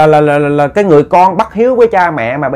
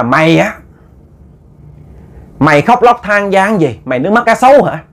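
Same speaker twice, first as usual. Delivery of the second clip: higher-pitched mock scolding; retold scolding; 4 semitones higher than usual. Young man berates a mourner at the funeral, retold scolding. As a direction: drag out the accusation, scolding in a raised pitch. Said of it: "nó chỉ trỏ nó chửi".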